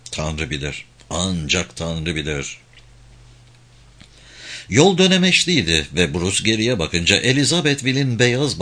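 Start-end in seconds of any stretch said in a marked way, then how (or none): 1.1-2.6 low, quiet, drawn-out "Ancak"; slow emphatic repetition. A narrator's reading. Bruce thinking to himself about the journey ahead, slow and emphatic. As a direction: stretch "Ancak" slowly, keeping it low and soft. Thought repeated with added emphasis.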